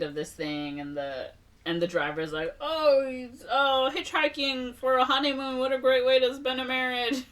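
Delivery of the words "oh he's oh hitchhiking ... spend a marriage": high, sing-along mock delight; gushing driver. Driver congratulating hitchhiking honeymooners, mock gushing. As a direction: coo over the newlyweds, hammed up.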